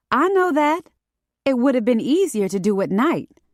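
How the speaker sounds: high, defensive comeback; irritated retort. A narrator's reading. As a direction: push back, pitched well up. Paris retorts, irritated at being scolded.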